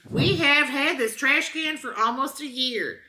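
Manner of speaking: deadpan dramatic review reading; mock-serious review reading. Host reads a trash can review to her co-host, deadpan dramatic.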